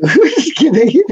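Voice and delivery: laughs through a teasing take-back; giggling it off after a joke; laughing. Real, not acted. Laughing after teasing Steve about the early time.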